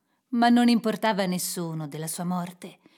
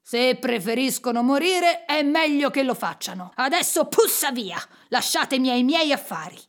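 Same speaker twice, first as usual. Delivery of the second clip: cross, forceful send-off; irritated dismissal; 3 semitones higher, 4 dB louder than usual. Acted. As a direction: drive them out impatiently. Miser drives the collectors away. (congedo brusco e irritato)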